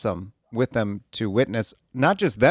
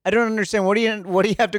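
exasperated disbelief; 8 semitones higher than usual. Real, not acted. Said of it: "exasperated repeat, pitched up".

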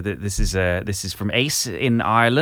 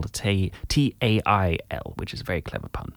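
Gerald voice; 4 dB quieter than usual. Acted. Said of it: "just do Gerald again".

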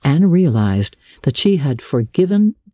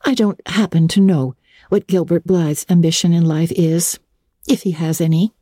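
Anne's voice with a touch of scorn, higher than the narrator's; scornful; 4 semitones higher than usual. Acted. Anne dismissing Marilla's question about Gilbert, mildly scornful. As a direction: brush off the question with mild disdain. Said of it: "said Anne scornfully".

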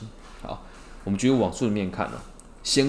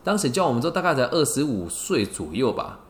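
ordinary delivery

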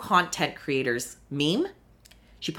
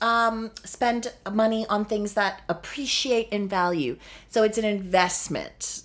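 a hint of higher, airy rich-lady voice; imitating Crystal; 4 semitones higher than usual. Lightly mocking Crystal's rich-person logic about spending. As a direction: lightly voice a breezy rich snob. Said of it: "her being like".

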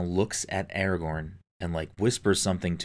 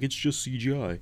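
quoting "It's just C G I" higher, in a scoffing voice; dismissive mock quote; 6 semitones higher than usual. Mocking critics who dismissed the acting, scoffing higher. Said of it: "people were like".

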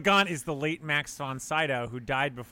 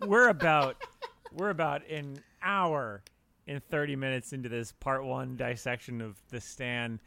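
tipsy. Real, not acted. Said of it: "if you're sitting there going, "Wow, he's slurring his words".

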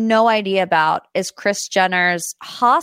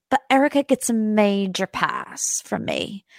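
put-on Dorit accent; 3 dB quieter than usual. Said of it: "I can't do the Dorit accent".

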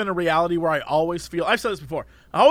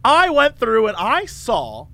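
put-on chatty old lady voice; slower than usual. Imitating chatty customer.

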